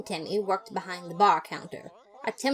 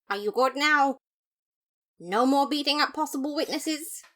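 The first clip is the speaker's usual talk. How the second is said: Papyrus voice; 7 semitones higher, 5 dB louder than usual. Acted. Papyrus checks on Undyne.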